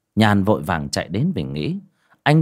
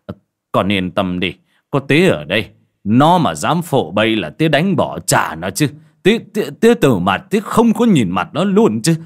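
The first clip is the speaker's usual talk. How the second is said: lightly voiced old father, steadying, then louder and faster in anger at the son; old father reassuring; 5 dB louder than usual. Father comforting daughter, then swearing off the faithless man, rising loud. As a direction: comfort her, then flare up in her defence.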